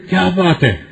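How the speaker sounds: "کیا بات ہے" quick and cutting, falling hard at the end; a clipped, sneering "کیا بات ہے" that picks a fight; mild sarcastic anger. Shown as a demonstration. Preacher says the same words angrily to start a quarrel, mild mock anger. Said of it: "غصے کی نظر سے دیکھ کہتے ہیں".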